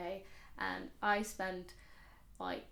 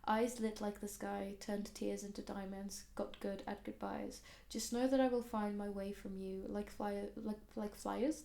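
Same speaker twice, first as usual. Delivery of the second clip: reading lyrics. Real, not acted. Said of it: "read out the lyrics".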